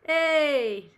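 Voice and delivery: loud, high-pitched excited shout; excited call-out. Real, not acted. Streamer spots a friend in the chat, excited call-out.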